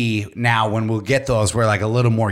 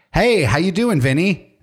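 chummy operator voice; 5 semitones higher than usual. Pretend. Imagined joking robot operator.

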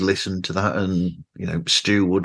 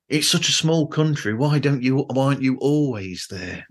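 surprised Americans; 5 semitones higher than usual. Retold or imitated. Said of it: "Americans are surprised".

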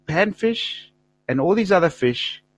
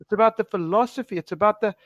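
pleading explanation; 5 semitones higher than usual. Retold or imitated. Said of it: "I was trying to say".

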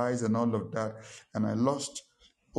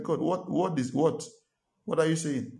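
higher-pitched, stammered mock protest; retold disbelief; 4 semitones higher than usual. Pastor balks at God's order to greet an offender, incredulous. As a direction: act out balking at an order.

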